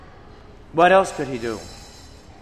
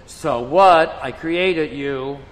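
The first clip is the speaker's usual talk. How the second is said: stern rebuke, raised and louder; 4 dB louder than usual. Retold or imitated. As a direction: thunder down at the proud sinner. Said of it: "And our Lord says".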